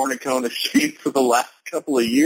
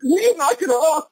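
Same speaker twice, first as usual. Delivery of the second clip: yelling at the dog; 11 semitones higher than usual. Retold or imitated.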